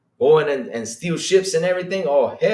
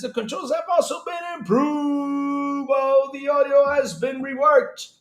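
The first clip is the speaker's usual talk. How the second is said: higher, louder and slowed, almost shouted; loud emphatic reread; 9 semitones higher, slower than usual. Shown as a demonstration. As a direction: belt it out to make them read it. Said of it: "You gotta read this".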